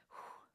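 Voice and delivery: airy "whew"; relieved exhale. Shown as a demonstration. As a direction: puff out a calming breath. Mimes the calming exhale.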